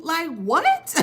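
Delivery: high, rising disbelief; incredulous. Real, not acted. Reacting to all hell breaking loose, incredulous.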